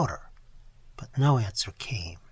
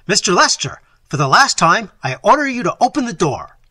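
loudest, higher ringing command; ringing shout; 7 semitones higher, 11 dB louder than usual. Acted. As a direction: let it ring off the walls. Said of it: "in a voice that rang and echoed from the walls".

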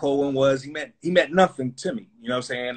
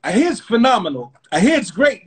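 higher, louder, breezy bluff; bluffing exec; 6 semitones higher, 5 dB louder than usual. Retold or imitated. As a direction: sell praise for music never heard. Leo bluffing about music.

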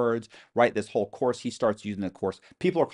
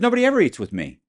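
laughing it off; 13 semitones higher, 8 dB louder, faster than usual. Retold or imitated. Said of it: "Kinda, like, laughing about it".

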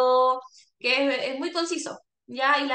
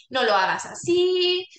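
slow, louder scolding "no lo hagas así"; negative scolding; 3 semitones higher, 3 dB louder, slower than usual. Shown as a demonstration. Caregiver scolding a patient, slow and firm. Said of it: "Evitar tanto esto de".

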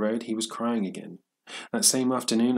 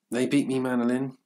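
mild exclamation, higher and louder; exclaiming; 5 semitones higher, 4 dB louder than usual. A narrator's reading. Old man telling the boy of his defeat, exclaiming. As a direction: lift the voice in a restrained narrated outcry. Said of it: "the old man exclaimed".

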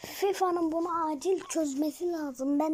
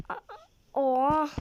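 a sharp, louder gasp of disbelief; stunned outburst at the screen; shocked oha; 3 dB louder, much slower than usual. Real, not acted. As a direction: react as if the goal just went in. Player reacts to a goal.

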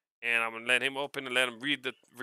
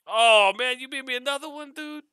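much higher, amazed exclaim; delighted exclaim; 13 semitones higher, 8 dB louder than usual. Real, not acted. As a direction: gush with delight over the gift. Delighted by another hat.

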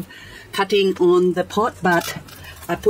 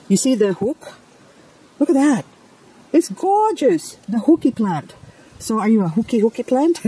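delighted cooing; 5 semitones higher than usual. Real, not acted. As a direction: coo at the plant with delight. Cooing at a curly plant.

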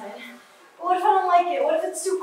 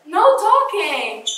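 slow, firm command; stern hush; 5 dB louder, much slower than usual. Real, not acted. Hushing her friend during the snow ritual, slow and firm. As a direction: lay down the rule.

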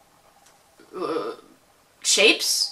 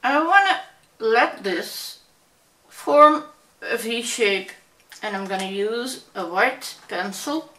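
muffled through closed lips; talking with mouth closed. Real, not acted. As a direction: keep the lips pressed together. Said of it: "'cause my mouth is closed".

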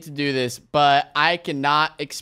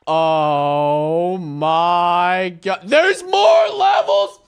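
shocked outburst; 5 dB louder, much slower than usual. Real, not acted. Player discovering level nine exists, shocked outburst.

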